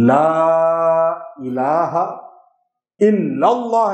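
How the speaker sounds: لا الہ drawn out, then الا اللہ said carelessly; mock wrong reading. Shown as a demonstration. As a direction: show how people misread it. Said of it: "یہ کلمہ بھی غلط پڑھتے ہیں".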